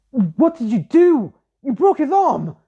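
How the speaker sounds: high, loud alarmed yelling; a classmate yelling in disbelief; shocked shout. Acted. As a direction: cry out in shock at what he did. Classmates shocked at broken arm.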